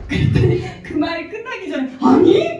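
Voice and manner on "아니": sudden loud high "no!" with a laugh; quick no. Retold or imitated. Drunk husband cutting off his wife, loud and quick. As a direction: blurt it out before she finishes. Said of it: "그러는 거예요".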